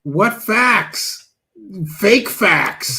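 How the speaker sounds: high-pitched, indignant outburst; incredulous heckling. Real, not acted. Host interrupting a guru's claim of facts, incredulous heckling. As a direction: cry out in high, scornful disbelief.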